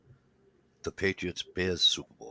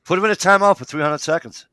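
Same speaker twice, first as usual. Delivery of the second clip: laughing taunt; 12 semitones higher, 8 dB louder than usual. Real, not acted. Teasing while laughing along.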